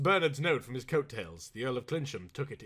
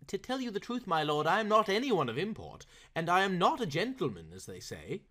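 embarrassed; 5 semitones higher than usual. Acted. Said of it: "getting very red and hot".

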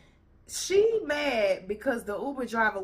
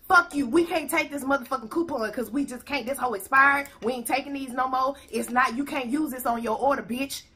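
mock rude clerk, a bit louder; rude clerk as she heard it; 3 semitones higher, 4 dB louder than usual. What the customer imagined the clerk said, mock rude. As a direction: twist the refusal into crude insults. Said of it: "what she heard was".

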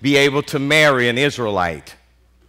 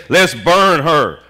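firm verdict; 5 dB louder, slower than usual. Retold or imitated. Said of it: "but he says".

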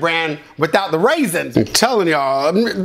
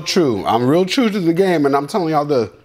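chewing while talking; 5 semitones lower than usual. Real, not acted. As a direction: mouth partly full. Seen 1: Cereal bowl in front; from 1.4s hand covers mouth, jaw busy.

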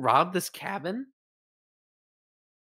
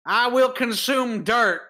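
slow mock proclamation; 3 dB louder than usual. Mock Oleg declaration.

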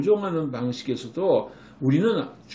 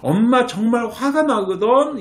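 higher, louder, slow angry words; showing anger; 8 semitones higher, 6 dB louder than usual. Shown as a demonstration. Mom showing the sofa-jumping child her anger, high and slow. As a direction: let the child hear mom is really angry. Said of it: "화가 난 표정을".

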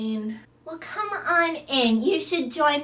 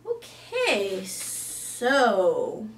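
normal talking voice

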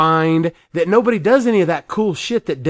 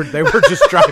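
laughing; 5 dB louder than usual. Real, not acted. Laughing retelling of the race.

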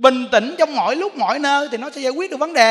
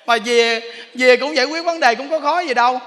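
usual speaking voice

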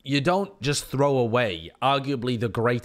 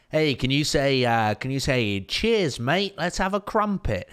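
higher, drawn-out mock viewer request; put-on pleading, pitched up to ridicule; mocking a requester; 4 semitones higher, 4 dB louder, slower than usual. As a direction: mimic a pestering fan in a higher voice. Mimicking a viewer's demanding request.

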